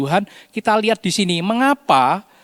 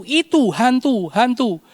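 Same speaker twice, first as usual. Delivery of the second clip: frightened cry; 7 semitones higher than usual. A narrator's reading. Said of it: "dan dia berseru".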